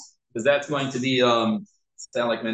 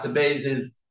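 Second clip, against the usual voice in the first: slow careful pronunciation. Shown as a demonstration. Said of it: "making sure".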